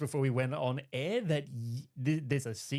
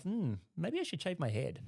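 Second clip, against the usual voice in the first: inner thought; 6 semitones higher, 8 dB quieter than usual. Retold or imitated. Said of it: "I'm just thinking to myself".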